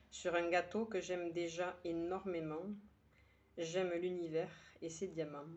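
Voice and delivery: measured verse reading with pauses between lines; poem recitation. Acted. Poet sharing today's poem with her listeners, measured recitation. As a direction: recite it line by line, letting each one settle. Reads the poem a second time.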